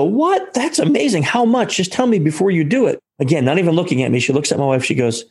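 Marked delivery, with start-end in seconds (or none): 0.0-3.0 astonished, high excited gasp of a question; stunned surprise. Retold or imitated. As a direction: pitch leaps up high in amazed disbelief. Stunned by free first class.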